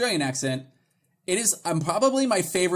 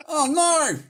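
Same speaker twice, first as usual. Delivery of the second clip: high-pitched, exaggerated Australian; Australian accent; 11 semitones higher than usual. Joking that it's fantastic, exaggerated Australian accent. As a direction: bend the vowel hard into Australian. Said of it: "how many letters are in the word no in Australia".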